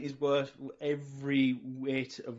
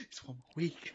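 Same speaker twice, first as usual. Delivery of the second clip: mock host; 10 dB quieter than usual. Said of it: "he'll be like".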